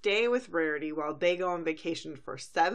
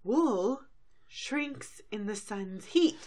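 exasperated; 4 semitones higher, slower than usual. Acted. Rarity scolding sister over sweater.

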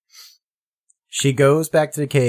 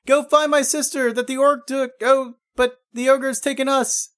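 half-hearted imitated scream, pitched up; mock scream; 10 semitones higher than usual. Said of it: "Tila's basically screaming".

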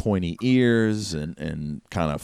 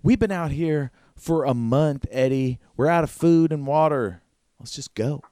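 Susanna's voice; 7 semitones higher than usual. Acted. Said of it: "And she says".

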